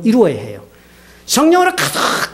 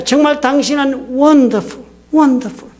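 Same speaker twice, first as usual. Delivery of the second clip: higher, drawn-out mock adoration; gushing affection; 4 semitones higher, much slower than usual. Husband praising his wife on the doorstep, gushing affection. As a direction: lay on the husband's sweet praise, slowly. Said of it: "자신의 마음을 다정하게 표현했습니다".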